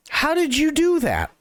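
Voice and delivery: put-on stunned bartender asks drunk; amazed Joe. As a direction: ask it wide-eyed and baffled.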